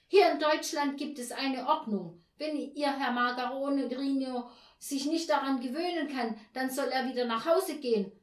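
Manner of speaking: worked-up, high, loud rant; loud, shrill agitation. A narrator's reading. Neighbour rants about order to the landlady, loud and shrill. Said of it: "Stimme ganz laut und schrill geworden".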